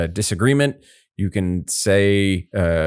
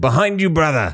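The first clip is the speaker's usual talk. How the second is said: put-on Scottish accent, pitched a touch higher; 8 semitones higher than usual. Imitating a game character calling out a warning: Mimir's Scottish accent. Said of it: "in his Scottish accent".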